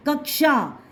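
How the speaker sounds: कक्षा with a clear k before sha; half-k in कक्षा. Shown as a demonstration. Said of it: "इसमें आधा का लग गया".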